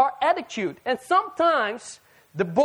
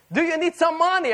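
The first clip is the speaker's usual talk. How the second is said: higher-pitched parent imitation; concerned parent; 6 semitones higher than usual. Parent offering grown child money, acted concern. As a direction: offer help like a fussing parent, lightly acted. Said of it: "They're concerned".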